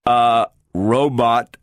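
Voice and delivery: slow, level robot voice with a puzzled edge; a machine turning over a new idea; slow mechanical query. A narrator's reading. The talking robot questions Gloria's words in a slow mechanical voice.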